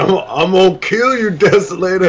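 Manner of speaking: a hint of a cranky granny making threats; old lady voice. Friend mimics the old lady threatening the streamer, a hint of a cranky granny. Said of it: "An old lady's like".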